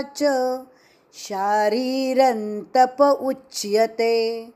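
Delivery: slow, measured chant of the whole verse; पूरा श्लोक पाठ; full shloka recitation. Shown as a demonstration. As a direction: recite the complete verse clearly. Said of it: "पूरा श्लोक".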